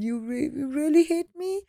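retold hurt question to her daughter; hurt disbelief. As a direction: ask as if stung, half in disbelief. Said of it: "And I said".

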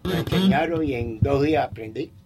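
distant, thin off-mic voice; talking away from the microphone; far from mic. Real, not acted. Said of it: "Acércate al micrófono un poquito".

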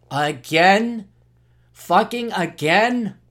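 drawn-out incredulous complaint; exasperated disbelief. Acted. Host acting out himself woken by the alarm, exasperated. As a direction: stretch it into an exasperated question. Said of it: "I used to do that myself".

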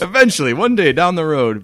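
loud, high, laughing repeat; laughing teasing echo. Real, not acted. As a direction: tease the word Eventually with a laugh. Laughing echo of partner's promise.

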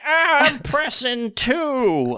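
high, slow, laughing mom voice; a flustered mom, drawn out; confused mom voice. Pretend. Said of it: "She's like".

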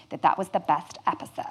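hushed, breathy sign-off whisper; a secretive little whisper; whispered ending. Real, not acted. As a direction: drop to a whisper to land the ending. Whispered punchline to end the story.

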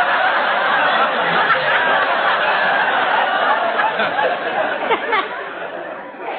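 long wheezing belly laugh; hearty laugh. Real, not acted. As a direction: laugh hard at the joke. The speaker laughs at the dog joke.

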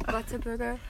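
Whataburger in a mock German accent; playful German accent, V for W; put-on German accent. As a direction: say it as if it were German. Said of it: "Why do you put on an accent".

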